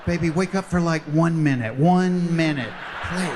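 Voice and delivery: loud, urgent begging; hammed-up desperate plea; pleading. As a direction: plead loudly to rouse a sleeping partner. Pleading with passed-out partner.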